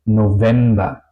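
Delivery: "November" with a voiced v in the middle; V como W alemana. Shown as a demonstration. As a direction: say "November" as "no-vemba". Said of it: "O otro ejemplo". ("November" con V sonora, no F)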